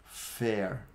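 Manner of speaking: slow, one word at a time with long pauses. Shown as a demonstration. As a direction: space each word out for repeating. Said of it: "Repete aí, depois que eu falo a palavra".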